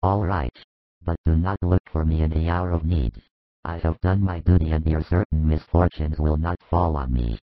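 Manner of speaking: low, cold, offended elder; hostile intolerance. A narrator's reading. Joseph taking offence and leaving, coldly hostile. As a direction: leave with wounded, sour dignity. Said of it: "his hostile intolerance comes to light".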